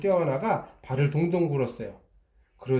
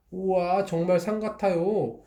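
higher, delighted gasp of wonder; amazed wow; 6 semitones higher than usual. Acted. Customer amazed at the magic drawing, higher wow. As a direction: marvel at the picture.

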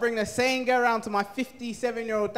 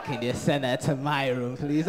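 dad's low voice; 9 semitones lower than usual. Retold or imitated. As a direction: drop it low like a creepy dad asking a favour. Dad's sly request, low voice.

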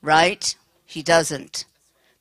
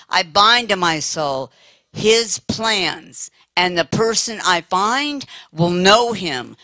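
slow, deliberate prayer of binding; fervent prayer. Shown as a demonstration. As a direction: pray it out, word by word with conviction. Leads a demonstration prayer.

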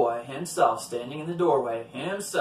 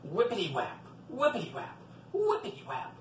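whippity-whap climbing higher and airier; whipping sound effect; 5 semitones higher, 4 dB quieter than usual. A narrator's reading. Storyteller imitating the devil's head in the rocker, whipping sound.

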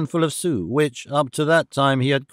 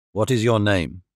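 low gruff man; 6 semitones lower than usual. Acted. Jean Valjean speaks to child.

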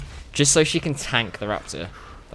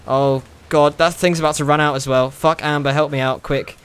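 louder, urgent calls for help; panicked calling; 2 semitones higher, 4 dB louder than usual. Real, not acted. Gamer chased by alligator yells to Amber, urgent. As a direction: yell to the pet for help mid-chase.

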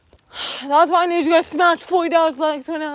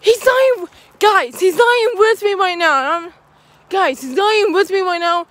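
higher, urgent alarm; panicked alarm; 4 semitones higher than usual. Real, not acted. Vlogger realizing Nick is gone, panicked alarm. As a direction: sound the alarm he's gone. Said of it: "so freaking scary".

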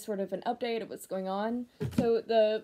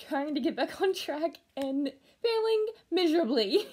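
laughing; 5 semitones higher than usual. Real, not acted. Laughing at own failing.

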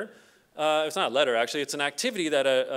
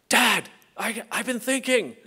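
put-on kid voice; 5 semitones higher, 4 dB louder than usual. Son's voice again.

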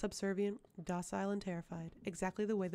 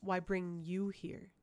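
slow; 3 dB louder, much slower than usual. Acted. Interrogating the servant.

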